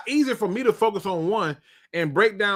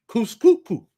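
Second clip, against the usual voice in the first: usual speaking voice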